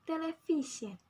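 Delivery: "Television" with a clear VI beat, then falling; stress on VI. Shown as a demonstration. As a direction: model "Television" leaning on VI. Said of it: "The stress at the V".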